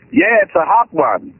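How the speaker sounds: slow attempt at an American accent; lightly faked American accent, drawn out; a Londoner trying to pass as American; put-on American accent. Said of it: "if I answer normal".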